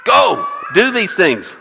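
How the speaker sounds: slow, forceful royal command; a slowed, ringing kingly order; commanding shout. Acted. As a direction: order them out like a king. King commanding in the story.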